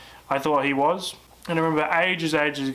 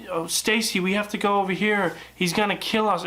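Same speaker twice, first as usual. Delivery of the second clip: mock teen horror dialogue; 4 semitones higher than usual. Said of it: "They're all like".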